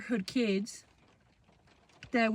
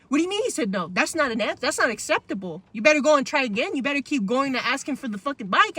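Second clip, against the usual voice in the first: raised, insistent scolding, lightly acted; retold angry mom; 3 semitones higher, 5 dB louder than usual. Mom sending child back for the bike, mock angry scolding. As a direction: imitate a mom laying down the law. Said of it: "screaming at me some more".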